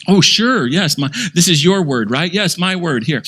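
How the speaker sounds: high, sweet and condescending; hammed-up syrupy superiority; smug false god. False teacher hands Bible over.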